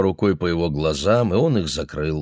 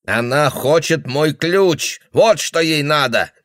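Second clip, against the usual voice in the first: put-on paranoid old man; 7 semitones higher, 4 dB louder, slower than usual.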